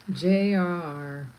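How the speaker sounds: ordinary delivery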